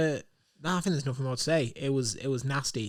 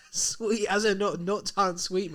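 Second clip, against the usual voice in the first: mock cockney; 5 semitones higher, slower than usual. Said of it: "don't know your English roots".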